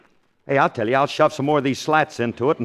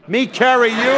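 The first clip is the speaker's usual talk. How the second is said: incredulous; 10 semitones higher, 4 dB louder than usual. Acted. Curly balks at carrying Frankie.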